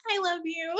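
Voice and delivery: gushing I love you. Retold or imitated. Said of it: "I may just randomly be like".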